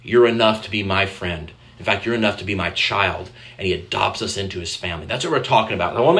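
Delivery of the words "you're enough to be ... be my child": tender. Retold or imitated. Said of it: "God comes to us and says".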